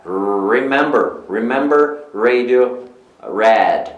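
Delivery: "remember", "radio", "red", each opening on a growled R; dog-like English R. Shown as a demonstration. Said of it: "tem um som meio que de cachorro".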